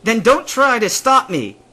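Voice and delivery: slow, high, loud warning; defiant yelling. A narrator's reading. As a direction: shout the challenge, drawn out. Yelling quarrel.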